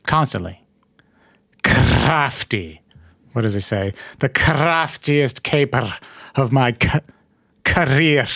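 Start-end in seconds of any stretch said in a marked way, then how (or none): 4.2-8.2 slow, rolled R's, almost Scottish; rolled R Joker. Retold or imitated. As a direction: roll every R slowly like the Joker. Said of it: "Sounds almost Scottish the way I do it".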